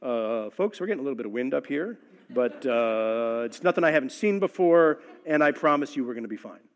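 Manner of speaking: a hint of an airline pilot soothing the cabin; lightly voiced pilot, unhurried and reassuring; calm captain voice. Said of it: "he says in that calm captain voice".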